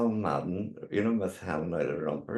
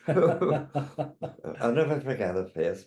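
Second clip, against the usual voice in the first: slow, through laughter; laughing; 6 semitones higher, 3 dB louder, much slower than usual. Real, not acted. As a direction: laugh while saying it. Laughing while speaking.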